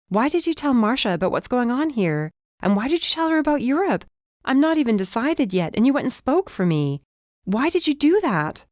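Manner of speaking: high, heated accusation; angry. A narrator's reading. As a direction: confront him, voice climbing. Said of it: "I forgot to be angry".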